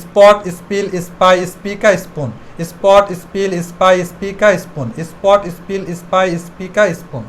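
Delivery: word list chained without a pause; one-breath drill. Shown as a demonstration. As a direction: rattle the words off in one breath, fading slightly. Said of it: "একদমে practice করতে থাকবো".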